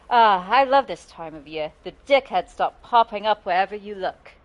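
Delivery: badly imitated game-character accent; bad Karlach impression. Shown as a demonstration. Streamer attempting a game character's line, bad impression. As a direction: do a rough impression of a game heroine. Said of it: "That was a very bad impression".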